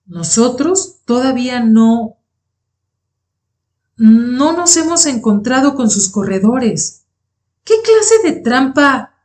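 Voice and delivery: lightly acted struggle for breath, in halting pieces; panting with difficulty. A narrator's reading. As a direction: break it up as if winded, pitch climbing high. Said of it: "Luego jadeó con dificultad".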